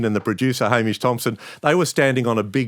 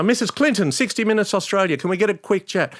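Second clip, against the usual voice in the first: calling out; 10 semitones higher than usual. Retold or imitated. Calling to Clinton over crowd.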